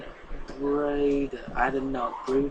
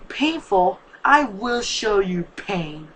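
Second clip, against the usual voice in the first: loud higher yell, then slow threat; 4 semitones higher, 6 dB louder, much slower than usual. Acted. The father punching the door and yelling in fury. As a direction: shout it, then grind out the threat slowly. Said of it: "punched the door and yelled".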